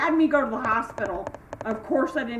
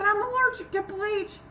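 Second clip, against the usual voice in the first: retold tearful cry; 11 semitones higher than usual. Tearful answer to the manager.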